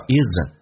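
"isn't" as "is an" joined, "iz-ən"; "isn't" said as slurred "is an"; linked words. Shown as a demonstration. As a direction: run z into a weak "ən" in "isn't". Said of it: "跟in叫".

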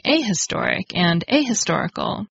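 "ahistoric and ahistorical" as article A, then a clear H; A kept apart before historic and historical, H pronounced; sounded H. Shown as a demonstration. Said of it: "you would hear the H sound".

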